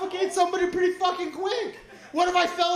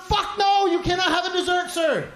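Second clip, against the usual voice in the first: blunt mock refusal; 4 semitones higher than usual. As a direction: refuse him flatly, playfully. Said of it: "Tell me I'm fat".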